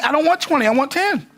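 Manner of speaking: put-on refusing the twenty in an Australian accent; mock insistent Australian voice. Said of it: "my Australian accent's not that good".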